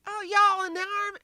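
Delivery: high Southern belle squeal; Southern accent. Retold or imitated. Mimics a Southern woman greeting soldiers.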